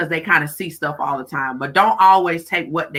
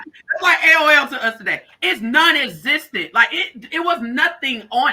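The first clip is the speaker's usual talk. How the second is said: emphatic repeat; 8 semitones higher than usual. Real, not acted. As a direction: hammer home the A O L joke. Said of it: "Like, no lie".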